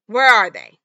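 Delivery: loud, hard demand; angry demand. Retold or imitated. Boyfriend demands where she hid the beers, loud demand. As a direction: bark it at her.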